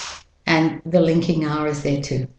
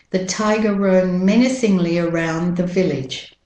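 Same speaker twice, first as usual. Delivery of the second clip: British-Australian model sentence, "tiger" without final R; British-Australian accent, evenly spoken. Shown as a demonstration. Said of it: "And with the American accent".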